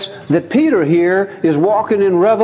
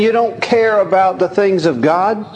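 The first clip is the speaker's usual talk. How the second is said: sharp rebuke; 3 semitones higher than usual. Retold or imitated. Jesus sharply rebukes Peter for opposing him, stern raised rebuke. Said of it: "Jesus answered Peter so sharply".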